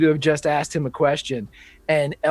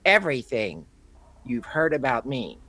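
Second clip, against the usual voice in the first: low whisper; 5 semitones lower, 6 dB quieter than usual. Acted. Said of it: "you hear Elry say".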